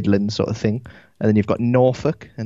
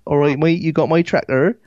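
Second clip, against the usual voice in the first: higher-pitched Devon farmer accent; 6 semitones higher, 3 dB louder than usual. Shown as a demonstration. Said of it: "That's how they talk".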